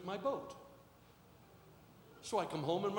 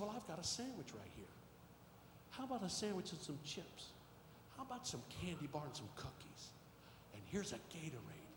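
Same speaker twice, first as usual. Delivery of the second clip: gentle offer; 10 dB quieter than usual. Retold or imitated. Son gently offers children food.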